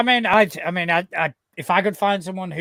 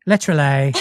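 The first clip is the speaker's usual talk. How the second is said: Essex accent; 2 semitones lower than usual. Shown as a demonstration. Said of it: "for an Essex accent".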